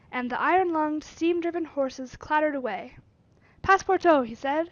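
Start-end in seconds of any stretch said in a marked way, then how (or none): 3.6-4.3 calling out. Acted. Fogg addresses his valet.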